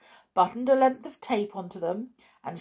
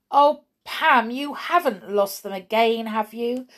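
raised, higher exasperated scolding; vexed mother, louder and higher; 5 semitones higher, 7 dB louder than usual. A narrator's reading.

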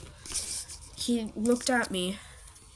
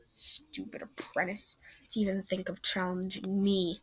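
sneering villain. Acted. Deputy sneering over the apprentice he thinks is dead. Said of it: "Elkhorn said".

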